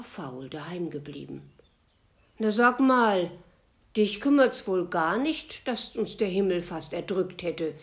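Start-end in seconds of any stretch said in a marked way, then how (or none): 2.4-7.7 loud scolding that eases off; scolding eagle. Acted. The eagle scolds the lazy bat in a loud voice. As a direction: tell off the lazy bat loudly. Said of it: "schimpfte der Adler".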